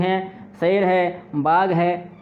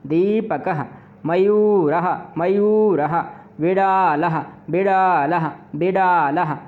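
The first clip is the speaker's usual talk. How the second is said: measured classroom chant, each word said twice or thrice; recitation drill; slower than usual. Shown as a demonstration. Teacher leads students to chant Sanskrit nouns with visarga. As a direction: model each word so the class can repeat after you.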